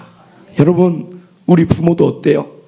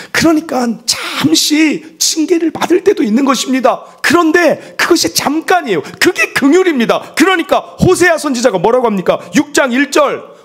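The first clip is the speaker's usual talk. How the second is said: impassioned preaching; 9 semitones higher than usual. Acted. Pastor pressing the point hard to the congregation, impassioned. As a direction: preach it with full conviction.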